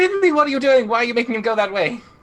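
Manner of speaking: loud, high-pitched yelling. Yelling in character at Finley for making Mus go that way: yelling at Finley in character. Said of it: "can I yell at Finley and just go".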